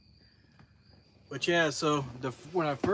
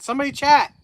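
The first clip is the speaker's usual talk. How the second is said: louder, higher plea for chat; high pleading call; 11 semitones higher, 13 dB louder, faster than usual. Real, not acted. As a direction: beg the viewers to type. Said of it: "the chat stopped".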